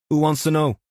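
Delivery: a wary man behind a chain; gruff man's voice. Acted. Meredith's wary reply.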